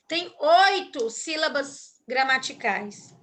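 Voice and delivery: ordinary talk, nothing marked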